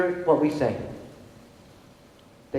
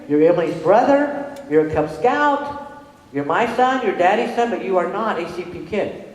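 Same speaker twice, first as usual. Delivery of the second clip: slow, emphatic mother listing who he is; firm insistence; 5 semitones higher, slower than usual. Retold or imitated. Mother telling her son he is not a CP kid, slow and emphatic. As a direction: drive home each point to your son.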